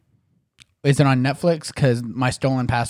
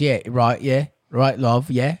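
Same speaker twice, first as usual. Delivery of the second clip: Tom Hardy-style British gangster talk; British accent. Acted. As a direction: put on a casual British tough-guy accent. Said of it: "if you're doing British".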